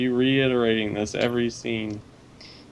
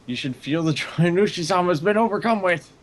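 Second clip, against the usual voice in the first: high, raised fervent preacher voice; fervent old man; 7 semitones higher than usual. Acted. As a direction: lift it up with zealous joy.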